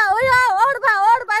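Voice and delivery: real tearful wail; crying out. Real, not acted. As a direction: cry it out in grief. Woman pleads, mimics family's cry. (ಅಳುತ್ತಾ ಕೂಗು)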